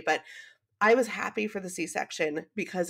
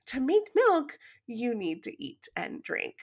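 put-on higher, talking down like to a child; mock patronizing; 4 semitones higher than usual. Retelling the doctor, hammed-up patronizing tone. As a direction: spell it out slowly, condescending on purpose. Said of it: "he didn't say it as patronizing as this, I'm just making it funny".

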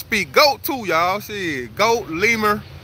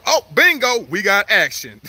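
excited; 4 semitones higher than usual. Real, not acted. Gator takes the bait.

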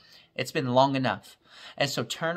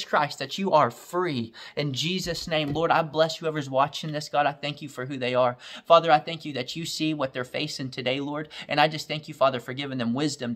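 fervent prayer. Acted. Preacher praying over his viewers, building to a fervent pitch. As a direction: pray over them with growing fire.

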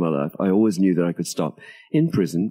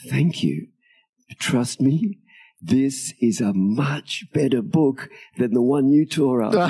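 voiced aloud, higher and drawn out, no real whisper; retold whisper in ear; 6 semitones higher, slower than usual. Writer hugging the crying officer, retold whisper in his ear. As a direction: stretch it out, higher, like an earnest confidence. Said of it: "whispered in his ear".

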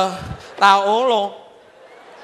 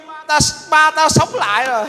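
laughing joy. Acted. Joyful news, laughing.

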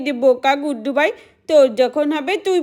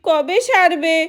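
put-on whimpering child. Sick child whimpers to mother.

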